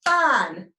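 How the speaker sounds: "Fine" as one loud beat; "Fine" said loudly to a clap; clapped syllable. Shown as a demonstration. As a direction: punch out "Fine" in a single syllable. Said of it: "Do it again".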